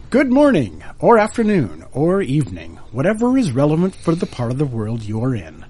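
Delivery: bright, lifted show-opening voice; radio host intro. Acted. Third try at the opening.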